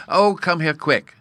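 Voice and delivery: high, loud, stretched-out urgent call; wildly excited cry. A narrator's reading. Bruno rouses the dreaming narrator, wildly excited. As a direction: call for help like an overexcited small boy. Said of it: "he cried, in a state of the wildest excitement".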